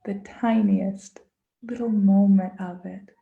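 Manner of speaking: hushed guided-meditation read. Acted. Leads a mindful listening moment.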